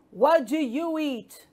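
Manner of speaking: a lightly shouted, nosy question; shouting frog. Acted. Frog asking the dog about food, mild shout. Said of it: "shouted the frog".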